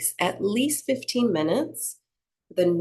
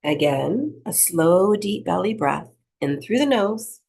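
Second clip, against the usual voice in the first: unhurried meditation-teacher delivery; guided breathing meditation. Acted. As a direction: lead them gently through each breath, leaving space.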